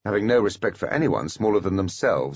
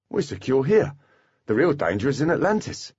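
Foley voice; 7 semitones higher than usual. A narrator's reading. Foley disagrees.

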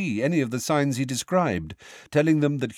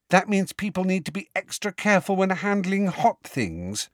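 put-on higher, keen girl's voice; eager schoolgirl; 5 semitones higher than usual. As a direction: rattle off the lesson proudly, pitched up. Parvati explains astrology eagerly.

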